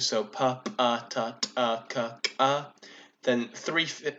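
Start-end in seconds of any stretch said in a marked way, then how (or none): 0.2-2.6 plain p, t, k each followed by its popped ejective twin; ejective contrast. Shown as a demonstration. Conlanger demonstrating the stops of a substrate language, plain then ejective. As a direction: say "p, p, t, t, k, k", the second of each pair an ejective. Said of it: "differentiated by, um, ejectives".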